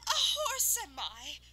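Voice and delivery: high, loud, slow indignant sneer; scornful snort. Acted. Insulted unicorn snorting at the farmer, high and loud. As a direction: snort the question in contempt. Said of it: "she snorted".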